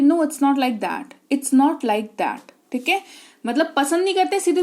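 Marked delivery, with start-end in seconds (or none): 0.0-2.5 very slow, gentle denial; polite, slow model reply. Shown as a demonstration. Teacher slowly models a polite refusal for students. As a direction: soften the no, slowly. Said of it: "English में भी politely कह सकते हो".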